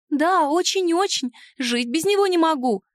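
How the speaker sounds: sniffling. Acted. House spirit confesses her love for the dragon, high and tearful. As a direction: sniff and gush it out, pitched high. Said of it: "шмыгнула носом Махрыня".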